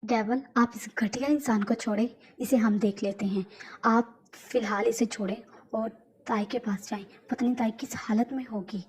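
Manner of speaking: lightly voiced, steady loyal aide; a hint of a calm right-hand man; calm loyal aide urging the boss; calm henchman. Suga urges Devil to leave.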